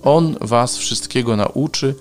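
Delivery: measured proclamation of the Gospel; scripture reading. Acted. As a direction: read it out emphatically, drawing out key phrases. Reads scripture and Gospel aloud. (uroczyste czytanie Ewangelii)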